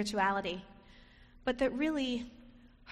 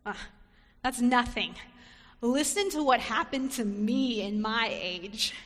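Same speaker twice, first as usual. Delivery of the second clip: louder, dismissive bragging; one-upping; 4 dB louder than usual. Acted. Elizabeth one-upping Mary, dismissive brag. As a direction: brush it off and brag. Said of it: "She doesn't say".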